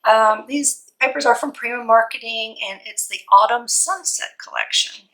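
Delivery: speaking up. Shown as a demonstration. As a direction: project it so viewers hear. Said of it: "Try to speak up".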